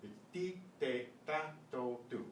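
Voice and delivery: "ti, te, ta, to, tu" with a crisp t and no breath after it; tongue in place, no air burst; Spanish t, no puff. Shown as a demonstration. Teacher demonstrating the correct Spanish t. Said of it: "No puff of air".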